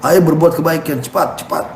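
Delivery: an angel urging believers in Ramadan; angel calling out. Retold or imitated. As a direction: call people like a heavenly herald. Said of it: "Allah utus malaikat khusus untuk menyuruh".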